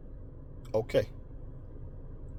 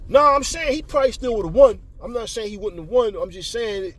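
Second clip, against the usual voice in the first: imitated higher-pitched, whiny backpedalling; mock a sore loser pleading his case; defensive excuse-making; 8 semitones higher, 4 dB louder than usual. Partner explaining away his loss to the controller, high defensive protest.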